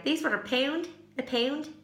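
"pound" slipping towards "peend" in a muddled Australian accent; puzzled, say "pound" in an odd, would-be Australian accent; unintended Australian twang on "pound"; accidental Australian-like accent. Real, not acted. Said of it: "What accent even is that? Is that Australian?".

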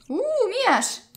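high excited "uu, mies!"; excited squeal. Real, not acted. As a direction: squeal with sudden delight. Excited at man arriving.

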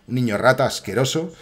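ordinary talk

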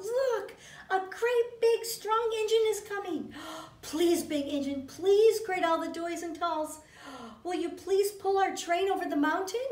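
high, eager calling out; a clown shouting with hope; excited call. Acted. Clown calls out to the approaching engine, high and eager. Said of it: "the little clown called out".

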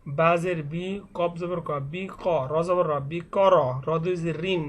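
measured letter-by-letter Quran primer reading; spelling drill recitation. Shown as a demonstration. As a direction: recite each spelling, then join the syllables. Spells the hard word once more. (বানান করে টেনে টেনে পড়া)

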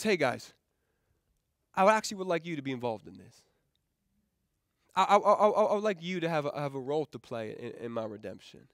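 soft, low voice of God asking kindly; tender, hesitant offer, trailing down; gentle invitation. Acted.

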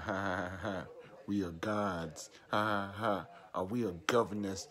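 mock the scoffers with spoken ha-ha-has; imitated mocking laughter. Prophet imitating those who laughed at his warnings, mockingly. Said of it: "they were laughing at you".

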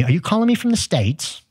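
high-pitched attempt at a British accent. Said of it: "that's my British accent".

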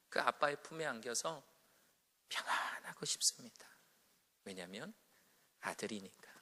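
low, soft, whispered prayer to the Father. Retold or imitated. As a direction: pray in a hushed breath. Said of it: "그런 기도가 나와요".

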